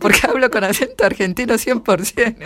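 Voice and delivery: loud, laughing through the words; amused laughing admission. Real, not acted. Laughing about her Argentine accent.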